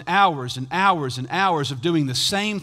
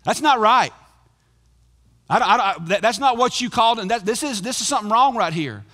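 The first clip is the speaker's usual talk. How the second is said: indignant protest; 4 semitones higher, 4 dB louder than usual. Acted. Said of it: "It was very simple justice for him".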